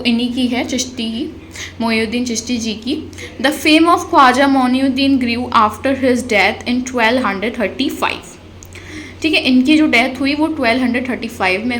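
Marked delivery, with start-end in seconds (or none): 3.4-8.3 slow, deliberate dictation of notes; slow note reading. Acted. Teacher reads notes aloud to students, slow dictation. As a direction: read it out word by word for students.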